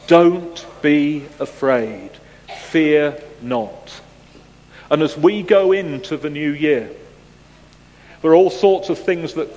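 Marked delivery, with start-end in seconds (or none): 0.1-4.0 angel's message. Acted. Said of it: "But the angel said to them".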